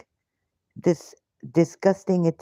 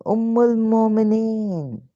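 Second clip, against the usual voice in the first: slow, drawn-out mock reverence; sarcastic title; 4 semitones higher, slower than usual. Real, not acted. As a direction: stretch the title slowly in mock awe. Sarcastic title after outburst.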